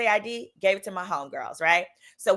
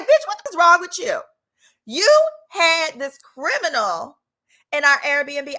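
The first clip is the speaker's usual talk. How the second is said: scolding homegirl; 6 semitones higher, 5 dB louder than usual. Retold or imitated.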